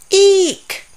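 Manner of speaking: high loud yelp of fright; startled squeal. Acted. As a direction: jump at the touch. Reacting to the ant.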